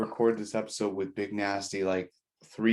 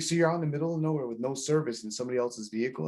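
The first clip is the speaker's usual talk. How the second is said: imitating a disbelieving spouse, fast and higher; mock incredulous wife; 4 semitones higher, faster than usual. Wife questioning husband about someone else's vehicle, mock incredulous. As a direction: rattle off the retold cross-examination.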